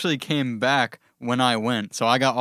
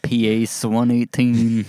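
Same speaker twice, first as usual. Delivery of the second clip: announcer voice; 4 dB louder, slower than usual. Acted. Restarting intro, drawn out.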